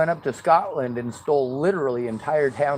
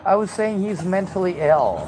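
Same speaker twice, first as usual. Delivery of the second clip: nerdy white voice; 5 semitones higher, 3 dB louder than usual. Pretend. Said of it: "in my nerdy white voice".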